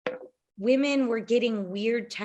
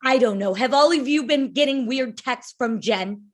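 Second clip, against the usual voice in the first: Lisa impression; 3 dB louder than usual. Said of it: "how do Lisa's accent? How does Lisa sound?".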